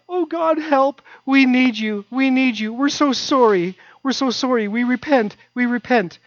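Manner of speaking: high, pleading cry to God; a people crying out in distress; desperate pleading. Retold or imitated. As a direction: beg God for help, voice way up.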